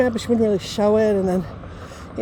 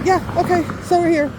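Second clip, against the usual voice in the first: higher, lightly imitated dad; dad signing off; 5 semitones higher than usual. Dad ending the phone call, lightly imitated. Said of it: "yeah, that's my dad".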